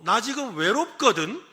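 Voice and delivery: mock lonely. Shown as a demonstration. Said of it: "해라는 거예요".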